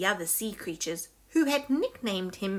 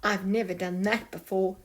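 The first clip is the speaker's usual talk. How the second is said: nervous. Acted. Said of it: "Sneezy said nervously".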